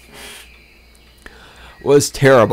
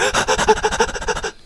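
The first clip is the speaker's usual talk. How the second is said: high falsetto giggle; 3 dB quieter than usual. Retold or imitated. Laugh after mock moaning.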